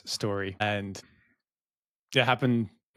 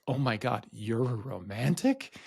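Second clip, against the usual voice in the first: retold horror. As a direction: drag out the last words as an appalled question. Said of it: "this look of horror".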